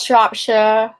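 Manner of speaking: "Shropshire" ending in a short "shuh"; slow, spelled-out "Shropshire" as "SHROP-shuh"; local Shropshire pronunciation. Shown as a demonstration. Teaching the county's name to the co-host, local pronunciation. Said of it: "and it's Shire".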